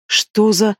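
a shocked, breathy gasp of words. A narrator's reading. Princess sensing the foreign magic, shocked gasp. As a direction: caught mid-spell by a terrible discovery. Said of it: "ахнула она".

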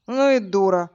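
put-on slurred drunk insult. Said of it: "пьяным голосом произнёс Влад".

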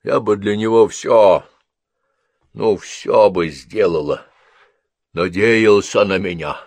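lightly voiced old patient; a hint of a frail old woman pleading; old Mrs Crabtree, earnest. A narrator's reading.

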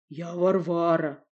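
slow, calm odd voice; unperturbed. Acted. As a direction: say it evenly, unbothered. Varvara's odd voice.

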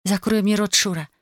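plain reading voice

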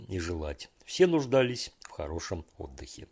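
ordinary delivery

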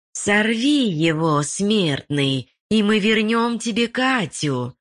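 high, slow creepy crone voice, not truly whispered; old woman's voice. A narrator's reading. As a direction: tempt him like an old hag. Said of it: "прошептал старушечий голос". (старушечий голос, вкрадчиво)

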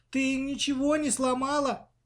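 confused babble. A narrator's reading. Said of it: "растерянно залепетала в ответ Маша".

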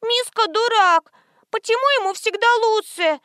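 put-on little girl complaining about her brother; whiny child. A narrator's reading. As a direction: sulk like a small girl. Little girl sulks again.

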